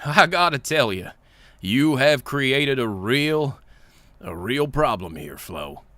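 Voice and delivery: lightly voiced, drawn-out character read; Engie. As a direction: read it slowly as a troubled engineer. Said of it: "so that's Engie talking".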